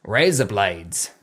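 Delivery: slow "Razor blades" in an Australian accent. Shown as a demonstration. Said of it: "razor blades in an Australian accent".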